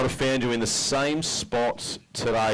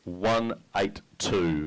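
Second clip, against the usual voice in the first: slow, stretched announcer reveal of the weight; drawn-out reveal; 2 semitones lower, much slower than usual. Real, not acted. Emcee to the crowd, stretching the weight slowly. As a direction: draw out the number for suspense.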